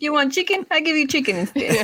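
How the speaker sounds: a lightly voiced abuela insisting you eat; playful impression of a feeding grandma; mock grandmother. Imitating grandmother offering food.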